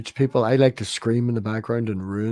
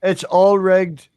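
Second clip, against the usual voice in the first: slow indignant complaint; 6 semitones higher, 9 dB louder, much slower than usual. Pretend. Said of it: "You sound like Math Pig".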